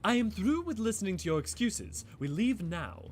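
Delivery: a touch of firm impatience in a character read; lightly voiced impatient character. Streamer reading a game character fed up with excuses, mildly firm. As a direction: push the words as if done with waiting.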